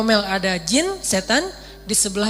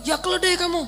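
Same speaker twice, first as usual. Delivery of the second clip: high-pitched name-calling jab; mock insult; 9 semitones higher than usual. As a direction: act out a passenger hurling an insult. Acted insult in a quarrel.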